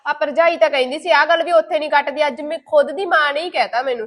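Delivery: wounded loud reproach; bitter loud complaint. Acted. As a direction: let the hurt come out loud.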